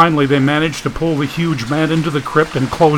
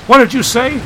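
much higher, louder yell; shouting over the wind; 11 semitones higher, 4 dB louder than usual. Acted. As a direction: shout across a roaring storm. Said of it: "the wind was so loud".

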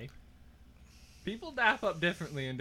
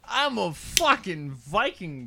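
impersonating his friend; 4 dB louder, slower than usual. Pretend. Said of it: "you have to impersonate each other".

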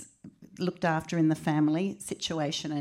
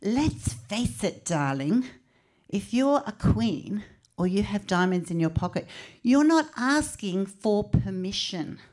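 grandma voice; 3 semitones higher, 3 dB louder than usual. Retold or imitated. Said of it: "She goes".

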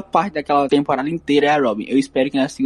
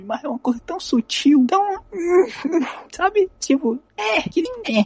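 laughing. Real, not acted. Laughing while describing a subtle charm.

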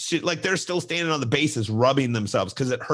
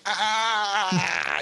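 mock pained cry; 9 semitones higher than usual. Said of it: "doing the".

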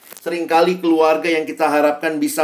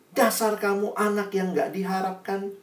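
retold scolding, softer and higher-pitched; angry mother; 4 semitones higher, 5 dB quieter than usual. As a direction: act out a mother's restrained rebuke. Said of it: "mamanya marah". (ibu marah, ditirukan pelan)

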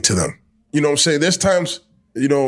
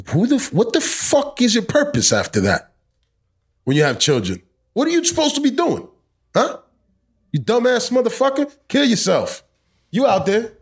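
wzburzony, podniesiony głos; angry rant; 10 semitones higher than usual. Real, not acted. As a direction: wyrzuca to z siebie ze złością. Angry rant at absent fathers.

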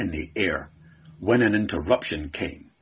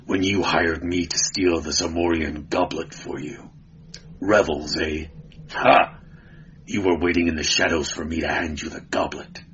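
lightly voiced grim barbarian; 4 semitones lower than usual. Conan speaks in low voice.

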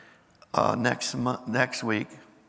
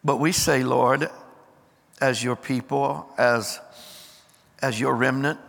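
firm declarations, rallying the people; rally speech. Acted. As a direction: proclaim it like a rallying call. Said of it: "declaring commitment as apostolic hub".

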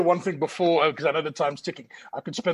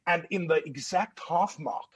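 usual speaking voice

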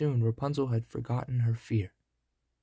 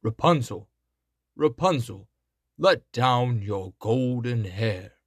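loud, slow call upward; 5 dB louder, slower than usual. Acted. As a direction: shout up to the tower window. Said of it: "called out".

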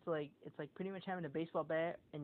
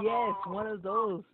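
emphatic; 3 semitones higher, 10 dB louder, slower than usual. Real, not acted. Emphatic confirmation.

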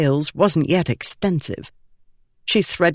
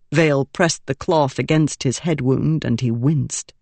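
usual speaking voice

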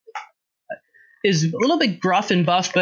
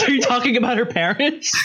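laughing; 5 semitones higher than usual. Real, not acted. Laughing at joke.

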